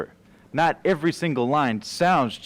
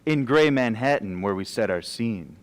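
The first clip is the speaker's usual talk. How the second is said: iambic verse recitation. Acted. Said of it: "but why are you talking like that?".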